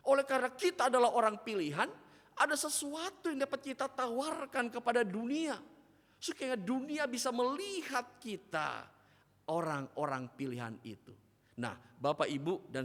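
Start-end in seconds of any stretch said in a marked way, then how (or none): 0.1-11.2 higher and louder, fast and fervent; full force preaching. Acted. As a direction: drive the point home from the pulpit. (khotbah berapi-api)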